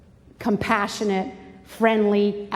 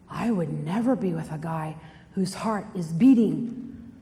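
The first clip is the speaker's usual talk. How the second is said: lower, lightly voiced girl disdain; smug girl; 6 semitones lower, 3 dB quieter than usual. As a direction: play a girl who thinks herself above it, lightly. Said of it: "some of the girls in this room, they're like".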